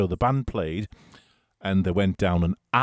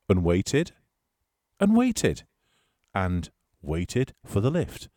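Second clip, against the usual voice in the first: drawn-out waiting; slower than usual. Real, not acted. Drawn-out comic repetition of waiting.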